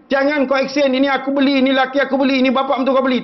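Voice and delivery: high, emphatic mimicry of bragging; scolding mock boast. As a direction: rap out the boasts as a warning. Preacher scolding boasters, mimicking their claims.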